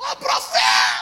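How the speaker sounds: very low, loud, wild, crazed voice. Contrasting how believers greet a pastor, imitating a crazy believer's greeting. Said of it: "Agora olha o crente doido".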